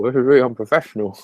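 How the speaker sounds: talking while chewing; mouth full. Real, not acted. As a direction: speak through a mouthful of food. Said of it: "I'm just eating with my mouth full".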